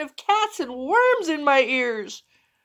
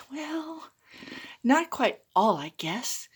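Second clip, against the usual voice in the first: sheepish; 5 dB quieter than usual. Acted. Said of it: "Marco stuttered with kind of a squirm".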